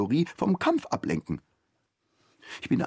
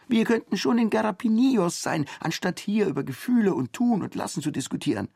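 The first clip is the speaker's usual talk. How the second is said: higher, brash and mocking; cheeky male comrade; 12 semitones higher than usual. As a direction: needle him with crude bravado. Same comrade, indignant. (frecher Genosse, höher und spöttisch)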